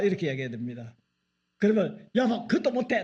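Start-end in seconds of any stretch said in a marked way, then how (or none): 2.1-3.0 high, coaxing whine; mock helpless wife. Wife asking husband to do it, high coaxing. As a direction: play helpless to flatter him.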